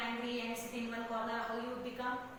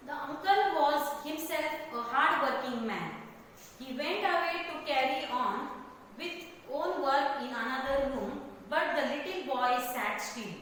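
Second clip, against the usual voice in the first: story reading. A narrator's reading. Teacher reading about the upset boy, emphatic story narration.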